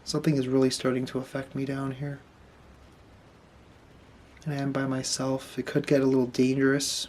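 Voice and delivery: hushed worried murmur; nervous night vlog whisper. Real, not acted. Headache in the dark cell.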